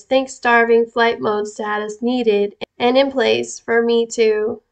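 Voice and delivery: slow, measured reading; deliberate, word-by-word emphasis. Real, not acted. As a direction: space the words out for weight. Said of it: "and slows down and gets louder sometimes".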